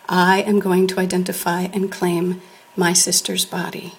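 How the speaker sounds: retelling a call made while crying, softly; tearful retelling. Retold or imitated. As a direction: let the grief leak in, understated. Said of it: "and I'm crying".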